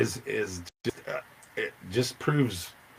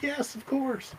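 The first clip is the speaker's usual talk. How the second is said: mock obvious reply; 5 dB quieter, slower than usual. Retelling the organizer's welcoming reply.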